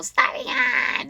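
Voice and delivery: imitating a girl faking her voice; faked voice. Mimicking how the suspected catfish sounds on the phone, faked voice. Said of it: "it sounds like she's faking her voice".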